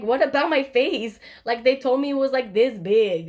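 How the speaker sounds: re-enacted indignant question; retold defensive protest. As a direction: push back at mom, baffled. Retelling defensive reply to mom.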